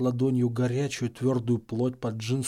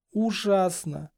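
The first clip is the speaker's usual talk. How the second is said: anguished moan; 7 semitones higher, much slower than usual. A narrator's reading.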